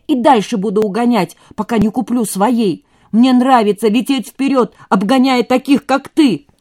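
high, loud, taunting; defiant boasting shout. A narrator's reading. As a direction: taunt him with it.

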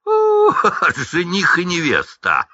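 high mocking schoolboy taunt; дразнилка Драко. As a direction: jeer at them in a shrill singsong. Драко дразнит, высокий голос. (насмешливая дразнилка Драко)

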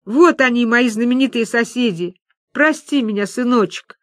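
distraught. Acted. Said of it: "казалось, что она сошла с ума".

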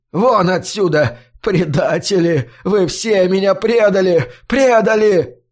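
rising to a sobbing yell; old man screaming at the traitors; betrayed fury. A narrator's reading. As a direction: hurl the word traitors.

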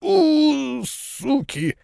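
a high wailing howl that sinks into a hushed curse; mournful howl. Acted. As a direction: whine in misery, then swear under the breath. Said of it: "тихий тоскливый вой". (тоскливый вой, переходящий в тихое ругательство)

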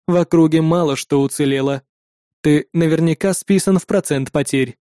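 a machine weighing whether to save him; cold android voice. Acted. Android warns coldly.

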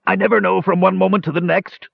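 high, strained angry snarl; snarling minotaur. A narrator's reading. Mage turned minotaur raging at his curse, snarling. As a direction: snarl it like a ferocious beast. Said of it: "snarled a ferocious minotaur".

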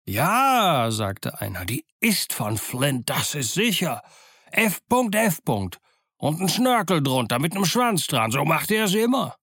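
a mutineer eagerly vouching for the map; swooping, animated sailor's delivery; excited mutineer. Acted. A mutineer exclaims over the map.

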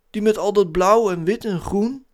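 hoog en luid, verwonderd; Zeus. A narrator's reading. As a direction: wijs de planeet verwonderd aan. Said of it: "vroeg Zeus". (hoog personagestemmetje)

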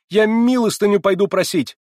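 high, loud cry; frenzied shout. A narrator's reading. Girl declaring she will beg, frenzied high shout. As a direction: fling it out at full voice.

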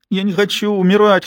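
high, lightly voiced whimpering child; small son whimpering to his mother; whimpering boy. A narrator's reading. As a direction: whine it like a scared little boy. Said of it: "хныкал Калли".

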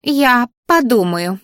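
the flower pompously accepting the offer, slow and lofty; self-important. Acted. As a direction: declare it pompously. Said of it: "важно заявило растение".

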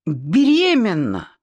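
stuck on the first sound, then a slow wail; stammer, then blurt it out slowly; acted tearful stutter, starting high. A narrator's reading. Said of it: "заикалась Сима".

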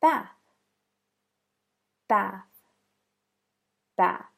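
"Bath" ending in an airy unvoiced th; "Bath" with the tongue tip out at the end; unvoiced TH demo. Shown as a demonstration. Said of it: "Next word".

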